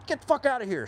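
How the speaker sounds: retold yell. Sergeants yelling at recruit.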